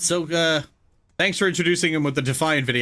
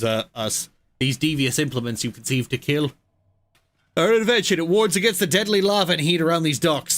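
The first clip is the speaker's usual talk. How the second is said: a light hint of a YouTuber narrator; Laserpig-like voice. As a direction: smith read like a video essayist, lightly. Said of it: "it sounds like Laserpig now".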